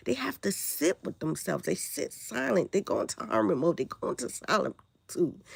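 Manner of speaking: hoarse from the flu; raspy, sick voice. Real, not acted. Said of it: "sorry about my raspy voice".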